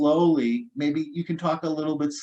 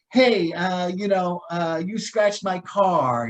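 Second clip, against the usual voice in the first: mock upset driver; 4 semitones higher, 3 dB louder, slower than usual. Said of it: "somebody says".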